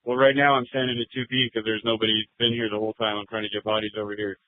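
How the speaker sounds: officer speaking over the radio; thin, filtered radio voice; police radio. Real, not acted.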